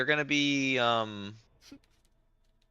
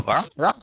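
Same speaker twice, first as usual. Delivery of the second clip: hellhound growl; 5 semitones higher, 4 dB louder than usual. Retold or imitated. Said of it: "They go".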